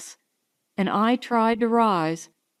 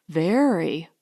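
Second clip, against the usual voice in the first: stout; 4 semitones lower than usual. Acted. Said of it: "I maintained stoutly".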